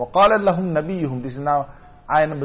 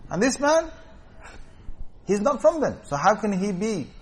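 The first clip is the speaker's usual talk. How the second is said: higher-pitched, protesting voice of the people; retold objection; 6 semitones higher than usual. The people object to Samuel about the chosen man, retold protest.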